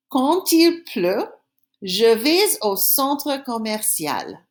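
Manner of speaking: slow, carefully spaced French for pupils; teacher modelling a sentence slowly to copy; slow repeat-after-me. Shown as a demonstration. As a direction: lay it out slowly so they can echo. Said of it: "I'm gonna say the sentence again, then I want you to say it after me".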